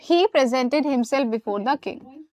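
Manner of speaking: very slow, each word stretched; slow model sentence. Shown as a demonstration. Teacher dictates the correct sentence slowly to students. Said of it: "dictated example".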